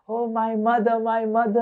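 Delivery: mock tearful son. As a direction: play the son crying crocodile tears. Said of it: "and Indra is crying".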